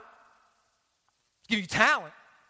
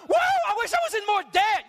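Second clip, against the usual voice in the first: sarcastic mock glee; 7 semitones higher than usual. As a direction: gush it sarcastically. Mock debt-lover, sarcastic.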